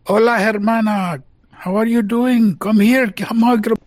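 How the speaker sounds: high, slowed, delighted sibling greeting; greeting sister. Acted. Eric greeting sister Lilia in the library, beaming. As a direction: call your sister over warmly.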